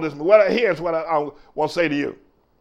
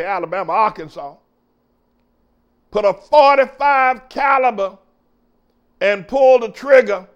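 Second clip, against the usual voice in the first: fiery pulpit preaching, raised voice; 5 semitones higher than usual. Acted. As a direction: preach it to the congregation.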